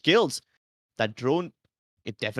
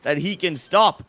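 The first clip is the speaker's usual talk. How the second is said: excited call; 5 semitones higher, 6 dB louder than usual. Real, not acted. Big play called.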